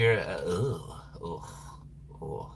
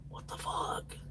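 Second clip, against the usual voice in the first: breathy muttered disbelief; whispered aside; 17 dB quieter than usual. Real, not acted. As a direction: whisper the curse under your breath.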